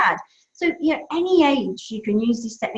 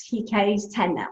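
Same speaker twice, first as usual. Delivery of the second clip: ordinary delivery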